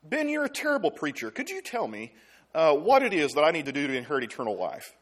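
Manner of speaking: lightly voiced insolent student; sarcastic rude opener to a preacher; mock rude questioner. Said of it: "You wouldn't really start out a question".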